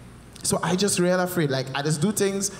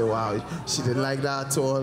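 mock surprised wow; 4 semitones lower than usual. Shown as a demonstration.

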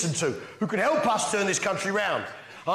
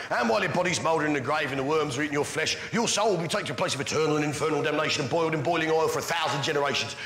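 matter-of-fact British recital, slightly lower; British accent, unfrightening doom reading; normal British accent; 4 semitones lower, faster than usual. Acted. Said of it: "described hell then in a normal British accent".

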